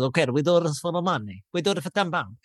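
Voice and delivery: put-on half-Italian, half-Russian accent; badly faked Russian accent drifting into Italian; muddled Russian accent. Big guy agrees to a bet, wobbly Russian-Italian accent. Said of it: "he sounds like he's half Italian, half Russian".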